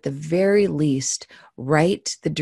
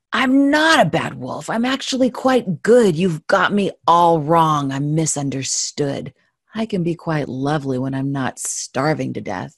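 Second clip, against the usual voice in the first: sarcastic wolf; 4 dB louder than usual. Acted. Wolf insisting to the narrator he's good, sarcastic. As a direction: play the wolf pleading his innocence with a sneer. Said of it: "he said sarcastically beneath his breath".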